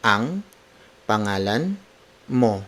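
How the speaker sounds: ANO, ANG, PANGALAN, MO, each alone with a pause after; word for word. Shown as a demonstration. Teacher breaking down the name question for learners, word by word. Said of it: "Word for word".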